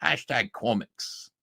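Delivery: "Hashtag comics" in the quoted voice, slowed a little; the last words of the quote, still sneering; mocking quote sign-off. Ending Liam's tweet in a mild mocking voice. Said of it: "Liam Gray says".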